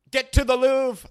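high, loud, badly faked British accent; a clumsy attempt at sounding British. Host trying a British accent for listeners, badly faked. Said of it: "that was really bad".

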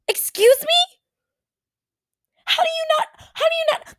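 shrieking, laughing incredulity; laughing disbelief. Retold or imitated. Reacting to friend not knowing her allergy, shrieking laugh. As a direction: cry out through a laugh. Friend says she just didn't know.

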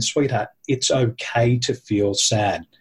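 mother comforting her grieving daughter, slow and tender; gentle comfort. Retold or imitated.

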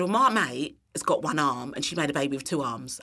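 put-on light Cockney accent; Lulu. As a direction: imitate a friend's Cockney, lightly. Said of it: "in a very Cockney accent".

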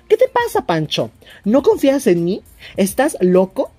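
put-on indignant girlfriend. The speaker reads girlfriend scolding Pancho, mock indignant.

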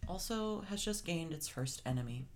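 news reporter voice. Pretend. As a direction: read it like a lightly mocked newscaster. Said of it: "I like your news reporter voice".

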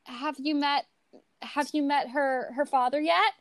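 lightly acted mom, rising to a high call; mock disapproving mom. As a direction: play a mom sizing up the boyfriend, then calling out. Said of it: "Your mom is meeting your boyfriend".

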